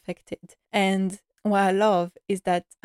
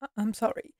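voice a bit shaken; faster than usual. Real, not acted. Fan apologizing as talking about the scene makes her cry, tearful. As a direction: apologize through rising tears, voice catching. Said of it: "if my voice is a bit shaken".

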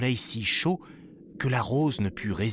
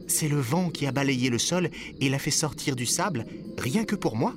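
put-on exclaiming boy; 5 semitones higher than usual. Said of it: "s'écria Moko".

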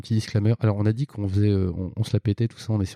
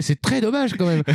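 mock disappointment; 9 semitones higher than usual. Mock reaction to accountant game.

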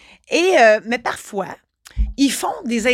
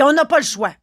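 higher, louder, firm; authoritative; 5 semitones higher, 4 dB louder than usual. Retold or imitated. Inspector insists to the notary, firm and authoritative. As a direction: lay down the rule. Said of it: "il prend un air ... plus autoritaire".

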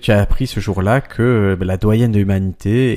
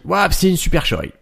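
put-on russian accent in french; 8 semitones higher than usual. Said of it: "il a dit".

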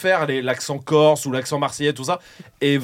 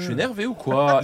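mild mock Swiss irritation; understated Swiss complaint; annoyed Swiss accent. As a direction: grumble gently in a Swiss French accent. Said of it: "Même quand ils sont énervés".

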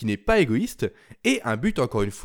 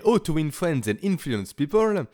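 English title read with a heavy French accent; apologetic French-accented English. Real, not acted. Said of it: "excusez-moi pour mon accent anglais plus qu'approximatif".

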